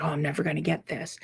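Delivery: quick, quiet defeated mumble; mock despair. Student voicing fear of failing, mild hopeless mumble. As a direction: imitate a timid student giving up. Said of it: "that fear of like".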